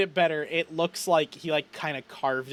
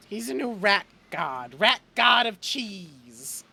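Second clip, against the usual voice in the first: slightly high, halting character voice; consoled griever; 5 semitones higher, slower than usual. Acted. Chet names Graham a new god, tentatively hopeful. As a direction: slowly take heart in a new belief.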